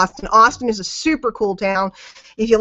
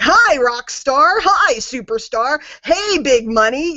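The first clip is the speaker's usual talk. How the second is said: slow, drawn-out mock cheer; lightly mock the hype talk; gushing hype voice; 3 semitones higher, slower than usual. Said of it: "they talk like that".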